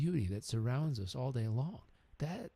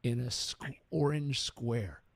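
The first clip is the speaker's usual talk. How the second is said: gracious blessing; slower than usual. Retold or imitated. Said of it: "And he said".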